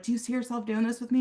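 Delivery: hurried, fast first-time ask; rushed nervous ask. Shown as a demonstration. Nervous rep trying the ask for the first time, rushed. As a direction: blurt it out before you lose nerve. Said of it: "if this is the first time".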